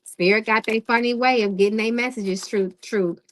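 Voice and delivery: talking around Invisalign aligners; words slurred by aligners in mouth. Real, not acted. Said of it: "It makes me talk funny".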